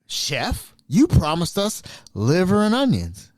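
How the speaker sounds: put-on high, eager chorus of old folks; eager residents. Residents insisting the chef promised, high eager voices. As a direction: residents backing her up, eager and high-pitched. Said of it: "They're like".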